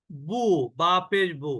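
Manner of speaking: বু said slowly, drawn out as bu with a rounded u; slow Arabic letter drill for a class. Shown as a demonstration. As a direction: spell out বু slowly, as if teaching a child. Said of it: "এরপরে দেখেন".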